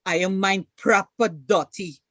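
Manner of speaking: a Guyanese Creolese phrase, said casually. Shown as a demonstration. Teaching viewers a Creolese saying, Guyanese accent. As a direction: toss it off in easy Guyanese Creolese. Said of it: "I, I would say".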